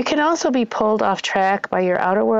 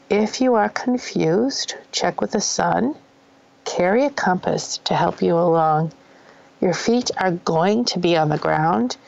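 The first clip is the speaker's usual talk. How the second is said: poem recitation. Acted. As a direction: recite the lyrics gently like a poem.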